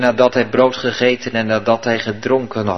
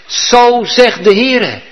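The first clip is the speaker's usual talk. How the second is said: slow, higher, louder proclamation of "Zo zegt de Heere"; prophet's shout; 9 semitones higher, 6 dB louder, much slower than usual. Acted. Old prophet shouting at the young prophet, slow and loud. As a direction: thunder it out like a prophet. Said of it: "Hij begint te schreeuwen, hij begint te roepen".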